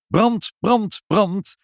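high, loud repeated alarm shouts; fire alarm cry. A narrator's reading. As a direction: raise the alarm, word by word. (hoog en luid brand roepend)

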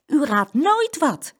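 drawn-out, teasing the surprise; girl calls out to grandma, excited. A narrator's reading. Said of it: "riep Saskia".

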